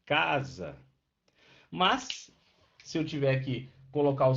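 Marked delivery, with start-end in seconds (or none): 0.0-0.8 casa with a long, stressed first syllable; casa, drawn out on ca. Shown as a demonstration. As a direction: lean on the ca of casa. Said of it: "É o K, né?".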